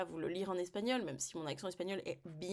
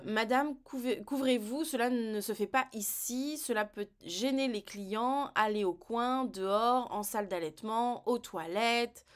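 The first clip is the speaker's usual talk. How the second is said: lightly acted scolding, a little raised; mock reproach; 2 semitones higher, 3 dB louder than usual. Passers-by ordering a nursing mother to cover up, mild mock reproach.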